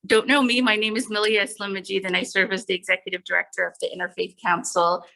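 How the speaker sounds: muffled through a face mask; speaking behind a mask. Real, not acted. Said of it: "I know I have a mask on my face".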